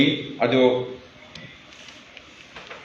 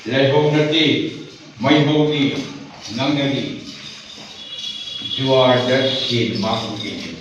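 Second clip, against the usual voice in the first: deliberate verse, phrase by phrase; measured, emphatic poetry reading; poem recitation. Acted. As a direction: declaim each short line, then pause.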